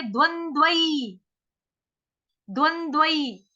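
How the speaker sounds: द्वंद्वई with a clear ai sound at the end; Sanskrit pronunciation. Shown as a demonstration. Teacher shows the Sanskrit ai sound in द्वंद्वई. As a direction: end द्वंद्वई on a full ai vowel, slowly. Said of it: "Sanskrit में क्या बोलेंगे".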